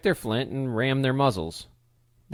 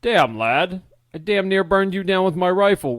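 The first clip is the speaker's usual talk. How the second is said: startled outburst; 6 semitones higher, 5 dB louder than usual. A narrator's reading. Startled father scolds intruder.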